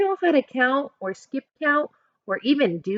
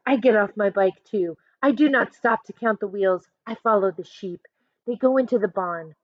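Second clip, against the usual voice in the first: ordinary delivery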